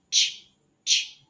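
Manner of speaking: short ch bursts; ch, quick and clipped; two short ch puffs; ch sound. Shown as a demonstration. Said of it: "the C H".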